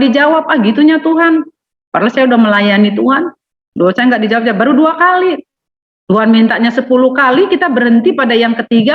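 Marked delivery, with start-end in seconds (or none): 0.5-5.4 higher, whining mock grumble of a sulking believer; sulky complainer. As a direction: whine like a spoiled prayer quitter. Sulking believer voiced mockingly. (jemaat merajuk dengan suara tinggi merengek)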